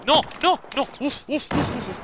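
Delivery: sharp cries of no then winded puffs; startled gamer cries; panicked yelps. Real, not acted. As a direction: yelp as you take hits, then puff out air. Player getting shot in game.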